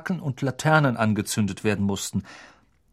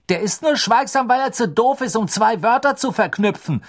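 higher, louder dismissive jab; gruff; 11 semitones higher, 5 dB louder than usual. A narrator's reading. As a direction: scoff at the rival gruffly. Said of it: "sagte Fred unwirsch".

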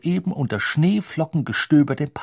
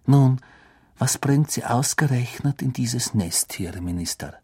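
changed, probing landlady voice; curious barmaid. Acted. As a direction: lean in with a nosy question. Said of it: "Das war Madame Rosmertas Stimme".

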